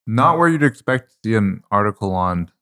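talking through mooncake; words round a mouthful; mouth full. Real, not acted. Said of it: "I have a piece of mooncake in my mouth".

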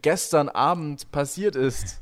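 high, loud hyped vlogger intro; overhyped YouTube drama opener; clickbait YouTuber voice. Retold or imitated. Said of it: "Wir können auch in die YouTube-Zeit gehen".

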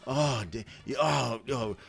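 lightly acted groaning protest; a hint of hammed-up moaning; mock pained moaning. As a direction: play at moaning through the pain. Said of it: "I'm moaning".

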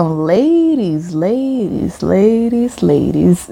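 half-spoken, conversational Ladies with a sensual edge; imitating the singer's spoken Ladies. Imitating the singer's song for the listeners, sensual and talky. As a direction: repeat Ladies like chiding a friend, sultry and talky. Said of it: "é exatamente o que ela faz com".

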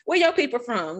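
country Arkansas twang; Arkansas accent. Retold or imitated. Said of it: "still got my Arkansas accent".

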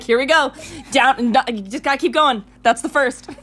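high, loud hype; excited. Retold or imitated. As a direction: pump yourself up for the fight. Acting her excited self.

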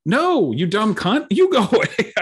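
hammed-up insult breaking into a laugh; venting at a stranger who wants his shady spot, mock-furious and laughing; retold angry retort. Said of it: "And I'm like".

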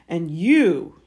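loud snarled warning. A narrator's reading. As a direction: round on the boy with a snarl. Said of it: "he snarled at Harry".

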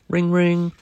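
high, loud held ring; bell imitation. A narrator's reading. Dad reader mimics the bike bell, high sing-song ring.

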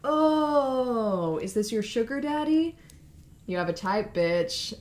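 high, mocking girly tone; lightly voiced sneering girl; catty mock voice. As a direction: tease her like a catty friend. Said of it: "She says".

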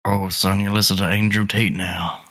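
put-on improvised girlfriend's dad with an uncertain country accent; lightly put-on rural accent. Dad questioning his daughter's boyfriend, in a put-on country accent. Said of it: "no idea what this accent is".

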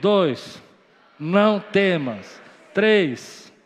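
loud, slow, commanding prophet voice. Shown as a demonstration. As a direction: proclaim each phrase with spiritual authority. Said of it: "com voz de profeta agora".

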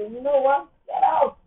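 loud, high command to the devil; loud tearful get out; defiant. Pretend. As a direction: drive the devil out, tearful and fierce. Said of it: "hold on and say".

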